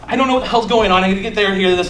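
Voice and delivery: acted hurried, flustered babble; fast talk. Caught intruder to security guard, mildly stressed fast talk. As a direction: talk just fast enough to seem stressed. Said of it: "rapid pa-, pa-, rapid pace talking".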